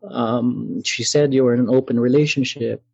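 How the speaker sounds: hurried, caught-out excuse; mock stammering. Caught husband stammering an excuse on the phone, mildly imitated. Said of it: "he just started stammering about".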